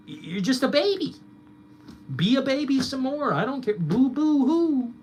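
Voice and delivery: high, loud fake boo-hoo; mock baby crying. Streamer mocking critics as crybabies, high fake sob. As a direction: taunt in a crybaby whine.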